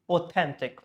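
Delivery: authentic as au-THEN-tic; stress on second syllable. Shown as a demonstration. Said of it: "this should be the louder most sound".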